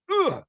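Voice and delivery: imitated grunt. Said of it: "I could still hear Dwight Evans".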